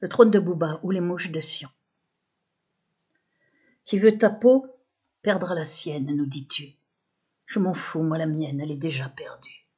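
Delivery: measured recital, each phrase set apart by pauses; poem recitation. Real, not acted. Poet reciting her combative poem on a rapper, declaimed poem. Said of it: "Je vous récite mon poème".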